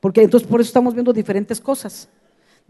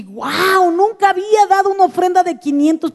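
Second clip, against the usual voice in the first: higher-pitched wow of wonder; retold amazement, pitched up; amazed; 5 semitones higher than usual. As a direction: marvel at your own daring. Acting out own amazement at giving.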